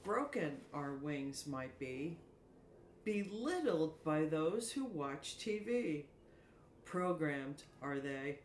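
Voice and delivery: slow, measured poetic reading with pauses; soliloquy recital. Acted. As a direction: recite your own verse, drawing out each phrase. Reads her own soliloquy aloud.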